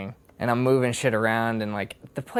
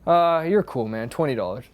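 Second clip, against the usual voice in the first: loud opening, then easing off; retold easygoing cashier; 4 dB louder than usual. Store owner letting customer off cheaply, loud and offhand. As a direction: imitate a casual owner calling out a price.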